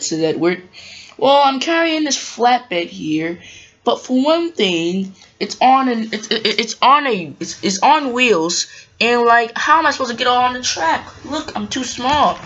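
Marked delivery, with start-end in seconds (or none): 1.2-12.4 a lightly voiced young engine fumbling for words; Trevor's voice. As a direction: play the small worried engine, halting.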